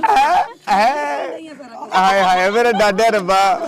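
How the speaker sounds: high laughing disbelief; shocked laughing. Real, not acted. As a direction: squeal hai hai, laughing. Mock shock at remark. (ਹੱਸਦੀ ਹੋਈ ਹੈਰਾਨੀ)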